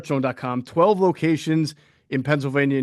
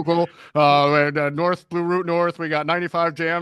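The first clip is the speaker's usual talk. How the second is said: traffic report; 2 semitones higher than usual. Pretend. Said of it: "the traffic reporter at a news radio station".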